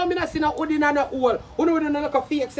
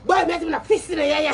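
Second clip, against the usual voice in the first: mock boast; faster than usual. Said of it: "You want to say".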